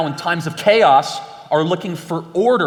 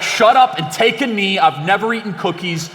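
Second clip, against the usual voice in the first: mock accuser; 4 semitones higher, 4 dB louder than usual. Accuser voice in doublespeak skit.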